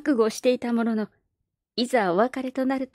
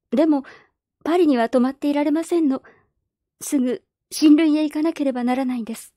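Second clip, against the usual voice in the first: put-on a higher, earnest girlish voice; politely but firmly refuse; young girl Perrine; 5 semitones higher than usual. Orphan girl telling the neighbours she must leave, earnest girlish voice.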